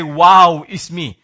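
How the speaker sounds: mock the proud man bragging about himself; mild mock arrogance; arrogant boast. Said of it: "the arrogant will say".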